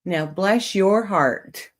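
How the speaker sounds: very slow, drawn-out sarcasm; very sarcastic. Shown as a demonstration. Streamer showing chat that it means F you, very sarcastic. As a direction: draw each word out with pointed false sympathy. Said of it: "mean it very sarcastically".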